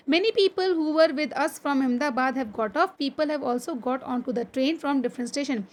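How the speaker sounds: slow, deliberate classroom reading; textbook read-aloud. Acted. Teacher reading a train journey story to pupils, slow read-aloud. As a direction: read it out slowly, phrase by phrase.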